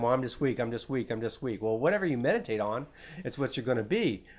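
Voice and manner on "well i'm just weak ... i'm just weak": self-pitying whine. Retold or imitated. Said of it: "some people just think all the time".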